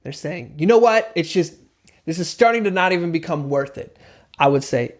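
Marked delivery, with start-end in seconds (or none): 0.6-4.0 frustrasi. Acted. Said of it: "getting really frustrated, they're saying".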